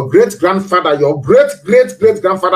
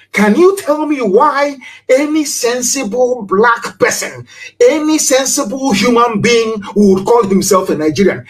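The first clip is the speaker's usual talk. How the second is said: outraged rhetorical question; 5 semitones higher than usual. Real, not acted. Speaker challenging Nigerians, higher outraged appeal. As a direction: demand an answer from the crowd.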